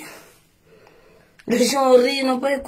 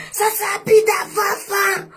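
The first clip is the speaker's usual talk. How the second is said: moquerie appuyée; 5 semitones higher than usual. Acted. Raille les vêtements, ton moqueur.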